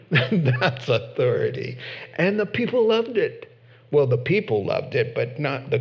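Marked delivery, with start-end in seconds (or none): 0.1-1.8 slow, laughing, That's stressed; laughing repeat. Real, not acted. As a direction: savor it with a chuckle.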